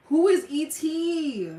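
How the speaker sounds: slow, high, loud puzzlement; who on earth is that; baffled. Real, not acted. Streamer baffled by a viewer talking about E T, slow and loud.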